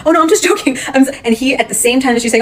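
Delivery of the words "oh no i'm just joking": higher-pitched, laughing mock protest; joking. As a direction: imitate her laughing it off as a joke. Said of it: "it seemed like she was joking".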